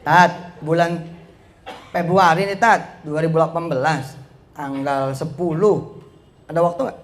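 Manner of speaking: measured announcement of a date; purposeful speaking demo. Shown as a demonstration. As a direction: state it firmly, phrase by phrase. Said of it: "Gitu ngomongnya daripada". (tegas, menyebut tanggal dengan jelas)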